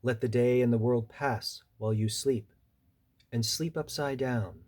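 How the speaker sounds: deliberate recital, each instruction set apart; poem reading. Acted. Poet reading a bat's advice to listeners, deliberate recital. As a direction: give each line its own breath, like measured counsel. Reads own poem aloud.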